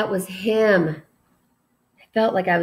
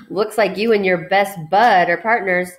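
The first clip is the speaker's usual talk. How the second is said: smirking; 4 dB louder than usual. Acted. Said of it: "He was smirking when he said this".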